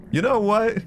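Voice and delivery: high, loud outburst; fit of rage. Acted. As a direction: snap at the cashier, fed up. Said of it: "In a fit of rage".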